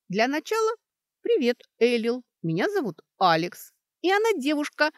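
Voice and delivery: high, loud, gleeful announcement; joyful. A narrator's reading. Kaitria gleefully adds a revelation about her friend, joyfully. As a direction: blurt it out happily. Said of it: "радостно добавила Кэтрия".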